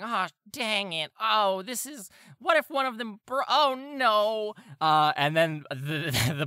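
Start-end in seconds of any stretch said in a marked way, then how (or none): 0.0-4.5 higher, louder, worried guard muttering to himself; fretting guard. Acted. GM voicing Bert fretting over the spilled gems. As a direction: fret like he's about to lose his job. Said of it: "you just hear Bert going".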